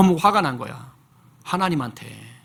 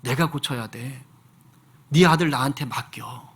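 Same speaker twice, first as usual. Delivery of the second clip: God speaking; 4 semitones lower than usual. Retold or imitated. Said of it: "근데 하나님이".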